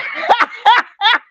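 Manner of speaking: a big burst of high laughter at her own joke. Real, not acted.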